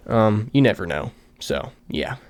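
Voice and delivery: breathless, winded words; tired and short of air; out of breath. Real, not acted. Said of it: "I don't know why I'm out of breath".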